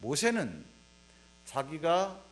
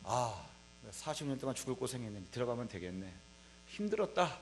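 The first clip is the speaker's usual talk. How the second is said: weary inner thought; 8 semitones lower, 10 dB quieter than usual. Retold or imitated. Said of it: "많은 생각이 이렇게".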